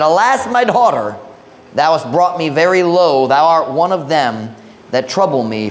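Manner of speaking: measured, solemn Bible reading; scripture reading. Acted. Preacher reads Jephthah's vow to the congregation, measured scripture reading. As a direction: read scripture aloud with deliberate phrasing.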